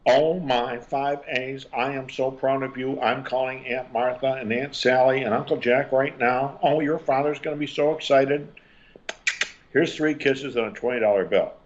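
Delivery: high, gushing parental praise. Shown as a demonstration. Proud parent gushing over five A's, pitched high. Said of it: "traditional authoritarian-based parent says".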